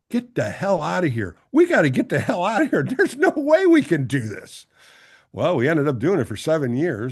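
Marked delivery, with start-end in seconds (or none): 0.1-4.7 rising, louder and higher through laughter; panicked laughing plea. Retold or imitated. The speaker panicking to Vida after the first break, laughing and loud. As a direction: bolt for the door, half laughing. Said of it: "I looked at Vida, and I go".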